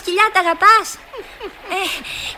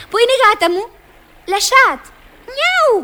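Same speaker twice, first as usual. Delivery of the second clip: mock French; 5 semitones higher, 6 dB louder than usual. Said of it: "Να του μιλήσω γαλλικά".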